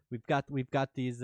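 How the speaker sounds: faltering attempt at a British accent; half-abandoned mock British accent; failing British accent. Shown as a demonstration. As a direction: start the British accent and lose it to laughter. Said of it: "I can't do it".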